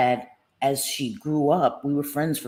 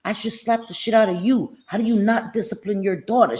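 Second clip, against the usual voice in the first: retold angry man; 5 semitones higher than usual. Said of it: "He said".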